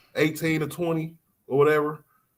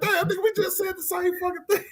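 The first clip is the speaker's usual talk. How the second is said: yelling. Retold or imitated. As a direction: shout it in disbelief. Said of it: "I'm like".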